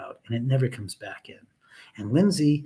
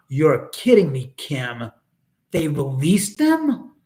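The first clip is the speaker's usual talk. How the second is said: shocked disbelief; 5 dB louder, slower than usual. Real, not acted. Shocked news killers released.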